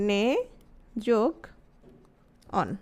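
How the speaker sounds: নে, যোগ, অন, with a pause after each; split into parts. Shown as a demonstration. Teacher splitting the word into its parts for the class. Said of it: "সন্ধি বিচ্ছেদ করলে?".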